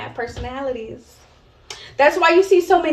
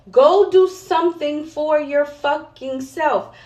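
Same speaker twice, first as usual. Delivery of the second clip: urging mother; 3 semitones higher, 4 dB louder, slower than usual. Retold or imitated. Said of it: "I always pushed her".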